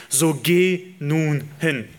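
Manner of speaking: each word drawn out and weighty; slow solemn So geh nun hin; slow command. Acted. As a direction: let So geh nun hin land slowly, leaning on geh. Preacher quotes God's command.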